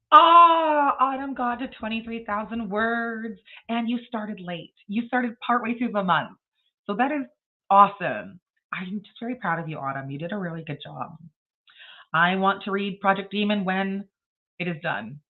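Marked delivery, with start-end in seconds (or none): 0.1-11.2 teary pride. Real, not acted. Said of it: "I'm gonna suck my tears in".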